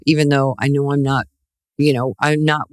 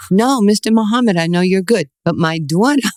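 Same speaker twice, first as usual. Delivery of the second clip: proud mother insisting; 4 semitones higher than usual. Retold or imitated. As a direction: insist to the champ that your daughter is better.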